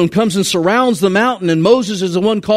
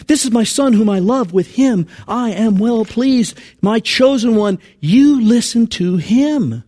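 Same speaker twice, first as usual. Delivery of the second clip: God's voice, quoted; 5 semitones higher than usual. Shown as a demonstration. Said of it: "The voice comes".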